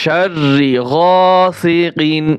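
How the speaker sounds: গাসিকিন slow, with a clear, unnasalized final ন; clear recitation. Shown as a demonstration. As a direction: say কিন clearly, without ghunnah. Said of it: "স্পষ্ট হবে". (স্পষ্ট করে ধীরে তেলাওয়াত)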